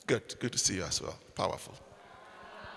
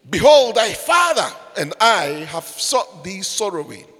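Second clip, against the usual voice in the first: mock scolding mother. Preacher voicing Mary's rebuke.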